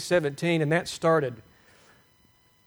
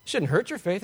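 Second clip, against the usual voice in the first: ordinary talk, nothing marked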